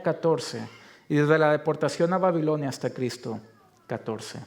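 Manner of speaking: measured, rhythmic reading of a genealogy; scripture reading. Acted. Pastor reading Matthew's genealogy to the congregation, formal scripture reading. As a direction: read the lineage out formally, name after name.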